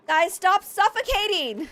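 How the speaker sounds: loud frantic yell at the colonists. Real, not acted. Streamer yelling at suffocating colonists, loud and frantic. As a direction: shout it out in a panic. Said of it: "stop suffocating is so real".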